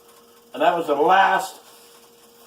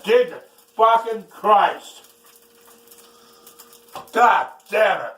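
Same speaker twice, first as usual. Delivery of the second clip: higher, louder swearing; angry cursing; 7 semitones higher, 4 dB louder than usual. Real, not acted. Cook cursing at eggshells in his eggs. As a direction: swear in real frustration.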